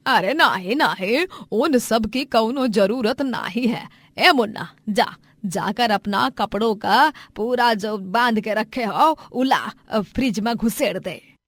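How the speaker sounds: lively, dialect-heavy elder voice; swooping village-dialect delivery; rustic village mother. Acted. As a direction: tease the boy in a broad rural lilt.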